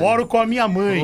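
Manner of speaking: sentence ending like a sports report; sports-bulletin intonation. Real, not acted. Host reading a listener's email, sports-bulletin intonation. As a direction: land the line like a bulletin reader. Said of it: "de esporte, toda frase dele termina assim".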